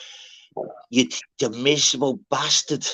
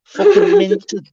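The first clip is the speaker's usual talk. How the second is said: emphatic exclaim; 6 dB louder, much slower than usual. Real, not acted. Brother minted, exclaimed loudly.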